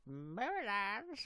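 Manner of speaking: Marylands stretched slowly and pitched high, rising; exaggerated echo. Streamer echoing the name Marylands for fun, exaggerated and drawn-out. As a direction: draw out Marylands with a high upward lilt. Echoes the place name back.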